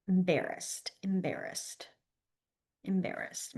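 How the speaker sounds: soft, fading repetitions of the sign word; murmured embarrassed, embarrassed; soft mouthed repeats. Shown as a demonstration. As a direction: say it quietly to yourself while signing. Sign teacher mouthing sign words.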